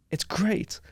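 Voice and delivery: breathy whispered punchline, dry and ironic; whispered aside. Real, not acted. To the podcast host, a sly ironic whisper. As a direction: drop to a whisper for the last word.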